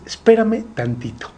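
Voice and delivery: Abraham's plea. Acted. Abraham asks God to wait a moment, lightly acted plea. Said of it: "Lo que le está diciendo a Dios es".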